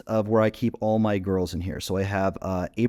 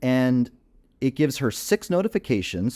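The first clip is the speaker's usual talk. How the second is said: ordinary delivery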